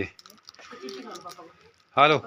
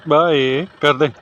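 calling out; 4 semitones higher, 7 dB louder, slower than usual. Real, not acted. Calling goodbye as van leaves.

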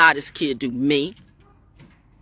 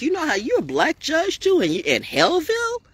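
much higher, lightly voiced advice; retold warning; 11 semitones higher than usual. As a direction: warn him in a high voice. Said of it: "and I'm like".

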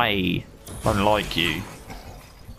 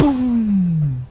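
loud gung-ho soldier; 14 semitones higher, 6 dB louder than usual. Acted. Hulk smash attack.

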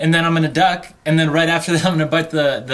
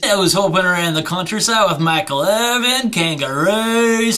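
fake Australian accent. Bragging about his trip to a friend, light Australian accent. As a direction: lay on the Aussie cliché lightly. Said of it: "distinctly Australian accent".

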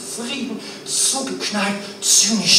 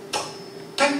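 whispered; 5 semitones higher, 5 dB quieter than usual. Acted. Hushed end of the doll verse.

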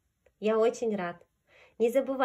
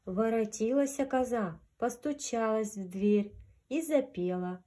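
gentle storyteller voice; grandma telling fairy tale. A narrator's reading. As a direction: read it like a bedtime fairy tale. Reads fairy tale to children.

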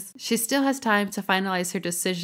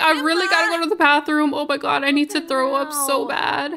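higher, rushed then pleading; mock urgency; 5 semitones higher, faster than usual. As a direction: imitate someone desperate for the bathroom. Voicing nauseous character desperate for bathroom.

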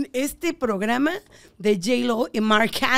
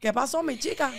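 put-on Puerto Rican accent; 4 dB quieter than usual. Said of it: "Puertorriqueño".

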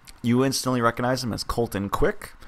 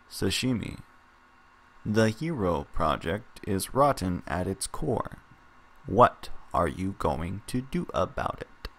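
slow flat robot voice; robotic monotone; 2 semitones lower, 3 dB quieter, slower than usual. Acted. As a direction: deliver it like a glitching robot. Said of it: "Ju speaks in a robotic, monotone voice".

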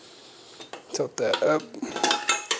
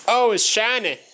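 delighted; 11 semitones higher, 4 dB louder than usual. Real, not acted. Pleased at clean metal.

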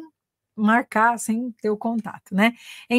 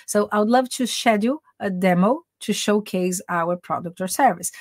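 slow model phrase. Shown as a demonstration.

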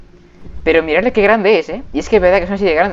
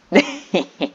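evil laugh; 3 dB quieter than usual. Acted. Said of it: "Risa malvada".

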